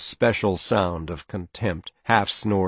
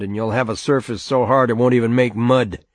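loud, higher lecturing father; stern father; 3 semitones higher, 5 dB louder than usual. Acted. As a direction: lay down the law.

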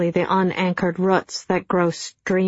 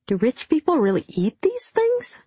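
whisper; 9 semitones higher than usual. A narrator's reading. Bill asks in awe at capers.

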